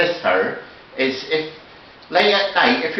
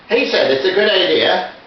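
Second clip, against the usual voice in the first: slipping into a northern Irish accent. Real, not acted. Passing on a neighbour's building tip, northern accent. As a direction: let a northern accent creep in. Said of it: "going into the northern accent again".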